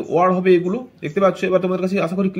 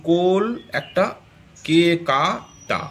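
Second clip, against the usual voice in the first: "কোল", "কা", "টা" said slowly as separate beats; slow teacher's breakdown of "কোল-কা-টা"; syllable by syllable; much slower than usual. Shown as a demonstration. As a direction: break the word into "কোল", "কা", "টা" with pauses. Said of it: "তিনটি উচ্চারণ অংশে বা সিলেবেলে ভেঙে ফেলি".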